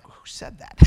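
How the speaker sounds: hushed, startled question; startled whisper. Retold or imitated. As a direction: whisper it as if caught off guard. Startled by his own words.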